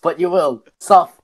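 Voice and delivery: dramatic threatening quote; menacing delivery of a threat; quoting a threat. Retold or imitated. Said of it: "Jolene's like this".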